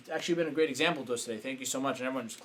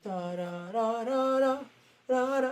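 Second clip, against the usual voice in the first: soft, higher "da da" droning; mental tune-out; 7 semitones higher, 3 dB quieter, much slower than usual. Acted. Tuning out her rant in his mind, droning. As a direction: drone nonsense syllables to block it out.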